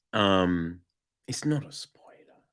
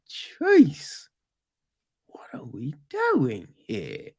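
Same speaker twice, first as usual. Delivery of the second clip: whispered aside; slower than usual. Retold or imitated. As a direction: mutter it under your breath in disbelief. Mock inner reaction, whispered.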